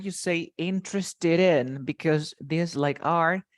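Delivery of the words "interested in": "interested in" slowly linked as one word; "interested in" joined without a gap, slowly. Shown as a demonstration. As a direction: run "interested" straight into "in". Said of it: "When you link the word".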